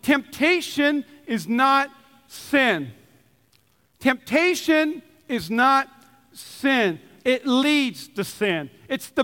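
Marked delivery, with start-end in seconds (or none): 0.0-7.0 slow, weighty preaching; slow emphasis. Acted. Pastor stressing his key line, slow and weighty. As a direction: lean on "temptation".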